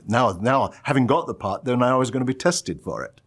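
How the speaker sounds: a touch of flustered worry, pitch climbing; retold nervousness. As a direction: lightly act out rising nerves. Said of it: "got rather nervous at that point".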